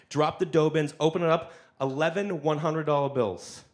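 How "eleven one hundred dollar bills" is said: ordinary delivery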